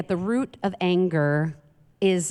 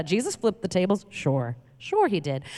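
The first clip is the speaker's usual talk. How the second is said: dry sarcasm. Real, not acted. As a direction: doubtfully echo the excuse. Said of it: "sarcastic repeat".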